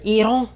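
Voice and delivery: Iran as "ee-RON", pitched high, second syllable drawn open; mock-fussy, high "Iran", ee then a long open o; over-correct pronunciation. Comic mocking people fussy about pronouncing Iran, over-correct pronunciation. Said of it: "goes crazy about pronouncing".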